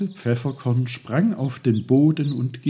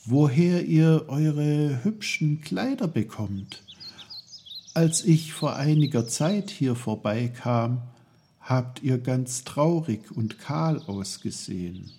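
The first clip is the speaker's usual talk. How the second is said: put-on lightly raised, wondering boy's voice; curious boy Peter; 5 semitones higher than usual. Peter's voice in story dialogue.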